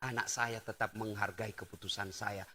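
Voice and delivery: very soft, low inner thought; hushed inner voice of the mother; mother's inner voice. Retold or imitated. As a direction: say it softly as if to herself. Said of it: "maka ibu dalam hati berkata".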